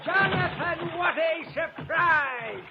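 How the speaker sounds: high, slow, shouted delight; delighted host hailing his friend; delighted greeting. Acted. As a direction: gush over the surprise visitors. Host greets arriving friends gleefully.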